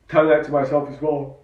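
talking through a yawn. Real, not acted. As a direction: yawn while saying it. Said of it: "Excuse me, I'm yawning".

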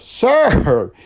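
loud, high drawn-out hail; insistent call. Retold or imitated. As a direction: imitate a pastor calling out insistently. Pastor calls again, more insistently.

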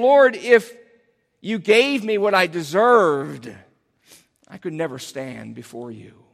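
desperate prayer fading into humility; humble, desperate plea. Acted. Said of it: "crying out in a very humble, desperate way".

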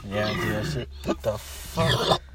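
raspy, breathy after a coughing fit; smoker's rasp. Real, not acted. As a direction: rasp it out through a smoky throat. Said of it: "That's a smoker's cough".

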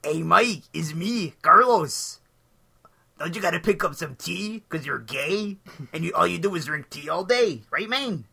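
lightly put-on voice of a pal; a hint of someone else nagging casually; Carlos. Inner voice reminding Mike about tea, lightly impersonated friend. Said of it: "my internal thoughts are in Carlos's voice".

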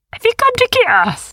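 high, loud, soothing little creature; calm the worried ones; littlest beast. A narrator's reading. The littlest beast reassures the others, high. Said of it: "she asked".

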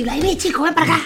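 mock nurse. Nurse calling the grandfather away from the kids, mock scolding. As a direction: call the wandering old man back like a nurse. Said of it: "La enfermera así".

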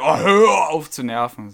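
nur angedeutet genervt, langsam; genervter Kunde. Retold or imitated. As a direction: ein Hauch von Nachäffen, gedehnt. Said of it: "der hat gesagt". (Sprecherin zitiert den Kunden nochmal, leicht genervt)

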